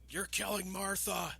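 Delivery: high, slow strained cry; pleading Superman. Retold or imitated. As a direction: repeat the desperate plea, stretched out. Repeats Superman's plea.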